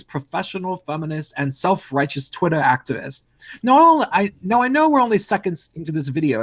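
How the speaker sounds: weak attempt at a British accent; Sargon voice. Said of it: "not as good at the Sargon voice".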